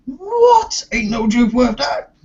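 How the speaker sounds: squeaky high Geordie impression, badly done; a bad Geordie accent that slides toward Welsh; high-pitched mock Geordie. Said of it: "That, that was a bloody awful impersonation of me".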